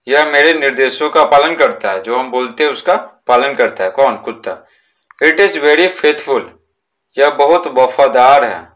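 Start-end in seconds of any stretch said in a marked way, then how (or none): 5.2-6.4 each word slow and separate for the class; slow reading aloud. Shown as a demonstration. Teacher dictating a textbook sentence to pupils, slow and deliberate. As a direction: read it out slowly so pupils can write it down.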